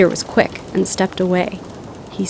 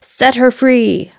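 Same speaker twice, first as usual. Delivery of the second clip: slow, higher, louder mock Hook command; a hint of Captain Hook, drawn out; 5 semitones higher, 4 dB louder, much slower than usual. A narrator's reading. Peter tricking the pirates as Hook, slow mock command. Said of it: "In a voice that sounded just like Captain Hook's".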